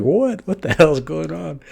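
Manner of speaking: high squeaky what, then baffled; mock outrage, pitch way up; Gojo shocked. Gojo reacting to Nanami's insult, high mock outrage. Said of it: "And Gojo's like".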